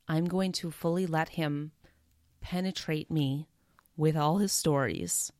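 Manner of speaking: a touch of sensual savoring, with pauses. Real, not acted. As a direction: linger lightly over each phrase as if relishing it. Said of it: "It sounds super sensual the way I'm talking".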